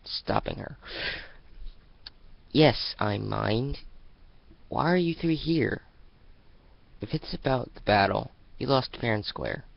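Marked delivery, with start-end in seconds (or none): 2.5-9.6 firm refusal. Acted. Sunset warning the Dazzlings off, firm and stern. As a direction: lay down the law.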